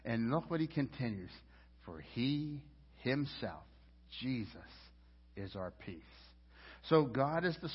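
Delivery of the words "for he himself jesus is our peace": soft, slow, dropping to near silence; hushed scripture reading. Acted. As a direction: let the verse fall away gently.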